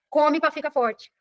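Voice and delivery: drawn out, each word spaced; slow repeated advice. Shown as a demonstration. Teacher repeating the family rule to students, slowly. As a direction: spell out the old rule slowly. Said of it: "Tá doente?".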